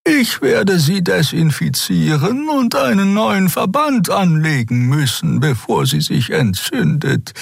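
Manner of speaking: high, slow, insistent healer; firm caring Xea. A narrator's reading. Xea tells Kero she must dress the wound, high and firm.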